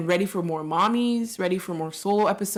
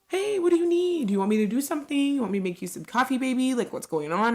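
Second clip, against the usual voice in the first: higher, fast, sugary coaxing; sweet coaxing; 6 semitones higher than usual. Retold or imitated. Wife sweetly coaxing her grumpy husband, higher and fast. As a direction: fuss over him to fix his mood.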